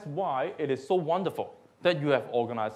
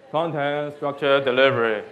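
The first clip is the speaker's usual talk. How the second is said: serious; 6 dB louder than usual. Shown as a demonstration. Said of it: "do it, uh, serious".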